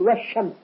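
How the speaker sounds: "والشمس" with a long sh and silent l; doubled sheen. Shown as a demonstration. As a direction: lean on the sh in "والشمس". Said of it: "نسمع فيها شدة". (تشديد شين "والشمس")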